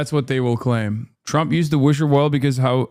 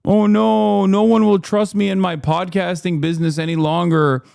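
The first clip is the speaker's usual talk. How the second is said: mock weepy whining; 4 semitones higher than usual. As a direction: whine it like a self-pitying baby. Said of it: "Everyone's like".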